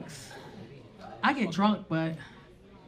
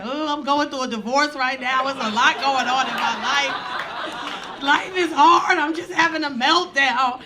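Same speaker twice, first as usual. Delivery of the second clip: mock crying; 6 dB louder, slower than usual. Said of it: "I start crying".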